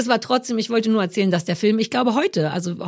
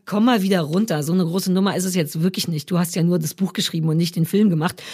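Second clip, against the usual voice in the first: low, belittling inner critic; inner killjoy policeman; 5 semitones lower than usual. Acted. Nagging policeman in the author's head, low and deflating. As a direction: drop the pitch and put yourself down. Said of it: "dem kleinen Arschlochpolizisten im Kopf, der sagt".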